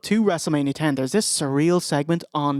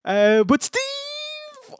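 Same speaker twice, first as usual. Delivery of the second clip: laughing; 8 semitones higher, much slower than usual. Real, not acted. Laughing after joke, voice cracking.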